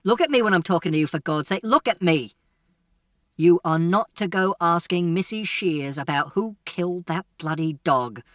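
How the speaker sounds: loud, building angry tirade; father scolding his son loudly for the last time; furious father. Acted. Father's final furious warning.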